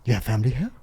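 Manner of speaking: lightly imitated Saudi accent; retold question in a Saudi accent. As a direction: put on a touch of a Saudi accent. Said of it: "in their accent".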